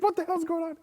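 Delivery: very high, loud squawk of alarm; mock panic. Musician facing the whole fiasco, mock-panicked. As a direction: yelp it in exaggerated bewilderment.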